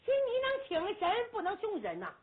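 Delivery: annoyed the fight ended too soon; impatient young general. Acted. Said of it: "朱木英急了". (没打够的先锋官急着喊人回来)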